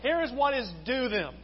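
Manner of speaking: "due" given deliberate weight; stress on "due". Shown as a demonstration. Preacher repeats the verse to make a point, stressing "due". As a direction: lean firmly on the word "due". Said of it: "I'm gonna emphasize the word due".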